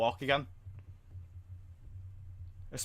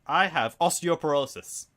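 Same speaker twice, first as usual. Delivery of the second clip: meme quote; 3 semitones higher, slower than usual. Retold or imitated. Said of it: "The iDubbbz meme".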